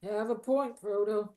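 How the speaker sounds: drowsy, half-asleep voice; sleepy, dozing off mid-chat; nodding off. Real, not acted. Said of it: "I'm dozing off".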